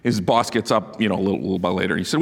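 normal talking voice

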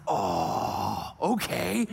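low drawn-out "oh", then okay; reluctant little boy. Retold or imitated. Son answering dad's skipping challenge, hesitant. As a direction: imitate a child hesitantly agreeing. Imitating son's hesitant reply.

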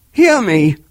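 high, loud command; ghostly cry. A narrator's reading. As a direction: demand to be heard. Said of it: "cried the ghost".

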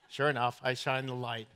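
normal talking voice

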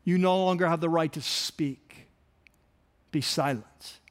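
restrained retold command; authoritative command. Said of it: "It's a command of authority".

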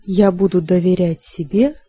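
usual speaking voice

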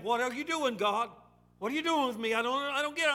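high-pitched, exasperated questioning; upset with God. Acted. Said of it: "we just get a little upset with God".

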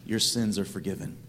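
soft, low and tender, gently reassuring; Jesus tenderly forgiving the paralytic; compassionate forgiveness. Acted. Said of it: "Jesus has compassion on him".

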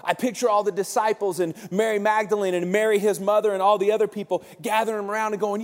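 ordinary talk, nothing marked

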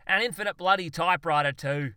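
loud, high, emphatic pressing on; near exasperation. A narrator's reading. Zoologist presses on with his theory, nearly exasperated. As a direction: press the point, patience nearly gone. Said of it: "dangerously close to the border of exasperation".

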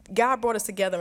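ordinary delivery

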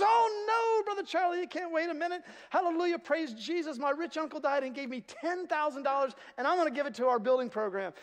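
very high, excited praise; gushing church lady. Retold or imitated. Sue telling the pastor about her gift, high and gushing. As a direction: gush with overjoyed excitement. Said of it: "She goes".

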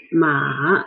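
ma falling, then rising; dipping third tone. Shown as a demonstration. Teacher giving the word for horse, dip and rise. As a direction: dip ma and lift its end. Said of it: "lower it and rise it".

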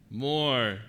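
ordinary talk

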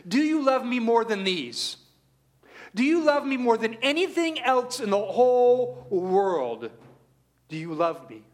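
Christ pressing the question, building then hushed; building plea. Acted. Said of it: "he asks this".

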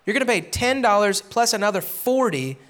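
a sly, smug collector squeezing extra money; greedy tax collector. Retold or imitated. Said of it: "He would say".

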